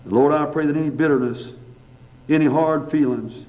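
earnest, even-pitched pastoral prayer; public prayer. Real, not acted. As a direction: address God in steady phrases with pauses between petitions. Let's bow for a word of prayer.

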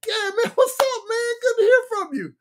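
very high-pitched chatter with a buddy; high, excited homeboy voice; voice going up. Retold or imitated. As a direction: push your voice way up high, talking to your boy. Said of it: "talking about the voice go up".

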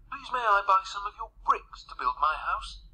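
high, polite piggy request; little pig. A narrator's reading. Third pig politely asks builder.

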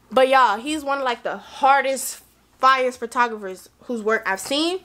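tipsy excited rambling. Real, not acted. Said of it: "I'm too drunk right now".

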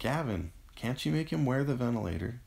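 high-pitched desperate appeal; distressed, imploring question; pleading. A narrator's reading. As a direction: beg for help, voice lifted. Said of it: "Avery pleaded".

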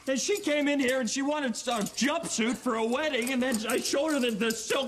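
exasperated yelling. Acted. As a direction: complain to the boss, losing your cool. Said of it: "why are you yelling at the customers?".

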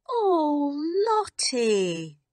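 high, loud, desperate scream. A narrator's reading. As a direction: scream her name in panic. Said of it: "Miss Amelia screamed".

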